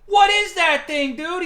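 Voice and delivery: the director, thrilled by a giant rabbit, shouting; excited. Retold or imitated. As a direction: cry out in childlike wonder at the rabbit. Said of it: "so fucking excited to see this rabbit".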